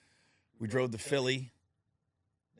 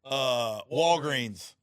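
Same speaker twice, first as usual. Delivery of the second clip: sheepish brother; 3 semitones higher, 8 dB louder, slower than usual. Retold or imitated. Brother explaining cheap gift.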